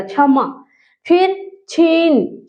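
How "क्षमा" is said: क्षमा with a little force on the opening छ; firm chha starting क्षमा; pushed from inside. Shown as a demonstration. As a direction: press the first sound of क्षमा from within. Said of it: "अंदर से थोड़ा जोर लगाना".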